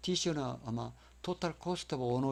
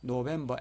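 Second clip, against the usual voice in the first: 노벰버 stressed on the middle syllable 벰. Shown as a demonstration. Teacher showing three-syllable word, 노벰버 stressed mid-word. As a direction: lean on 벰 in 노벰버. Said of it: "중간에 강세가".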